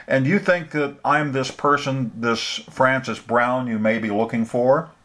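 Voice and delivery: a hint of a suspicious older woman; wary older woman. Frances voiced on phone.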